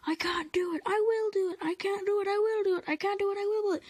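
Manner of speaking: chug it like two engines; puffing together. Acted. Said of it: "they puffed together".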